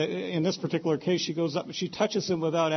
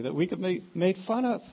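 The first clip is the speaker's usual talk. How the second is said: mildly sarcastic, pitched a bit higher; faintly mocking the complaint; almost sarcastic; 5 semitones higher than usual. Real, not acted. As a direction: say it with a touch of sarcasm. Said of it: "I say that almost sarcastically".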